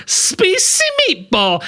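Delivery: high, slow hammed-up Italian accent. Retelling the pizza order, mock Italian accent. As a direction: sing out the order like a cartoon Italian. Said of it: "he started to do, like, an Italian".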